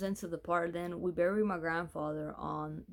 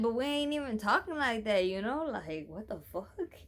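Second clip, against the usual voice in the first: retold indignation, pitched higher; incredulous protest; 4 semitones higher than usual. Telling her they aren't even talking like that, incredulous. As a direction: protest in disbelief, voice lifted.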